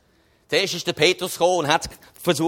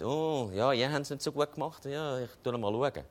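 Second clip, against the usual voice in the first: mock lenient; 5 semitones lower, 10 dB quieter than usual. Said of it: "Er hat nicht gesagt".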